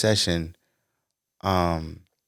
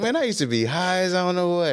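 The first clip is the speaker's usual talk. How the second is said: dad voice; 12 semitones higher than usual. Retold or imitated. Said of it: "He was like".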